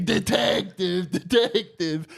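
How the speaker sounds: high, slow repeated yell; drawn-out shouting chant; mock shouting. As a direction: friend yelling at the inspector over and over. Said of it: "And he".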